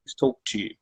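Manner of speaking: soft, gentle plea to a parent; calm request. Shown as a demonstration. Young person softly asking dad and mom to talk, calm. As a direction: ask quietly and calmly, no pushing.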